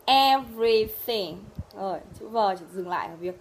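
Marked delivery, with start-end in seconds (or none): 0.1-1.4 "Everything" slow and loud but connected; whole word, clearly. Shown as a demonstration. Teacher drilling the V sound, word said whole. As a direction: say "Everything" in one piece, deliberately.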